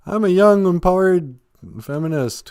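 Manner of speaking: high, loud mocking girly voice; snide parody of a strong heroine; mocking Mary Sue. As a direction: sneer it out as the new heroine. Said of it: "they get this Nancy Sue".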